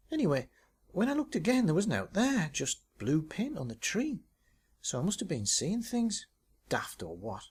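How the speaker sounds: breathless, proud of her shot; excited Tracy. Acted. Tracy voiced, higher.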